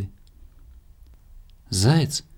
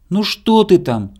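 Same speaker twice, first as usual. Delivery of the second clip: high, loud drawn-out question; squirrel calling out; 7 semitones higher, 7 dB louder, slower than usual. A narrator's reading. Squirrel asking hare from the darkness, loud high call. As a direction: call slowly up and out into the dark. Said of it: "спросила из темноты белка".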